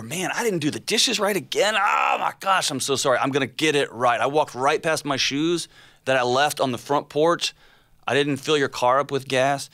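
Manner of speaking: high, rushed, flustered husband apologizing; frantic apology. Acted. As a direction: gush out sorry like a panicking husband. Husband voiced apologizing to wife.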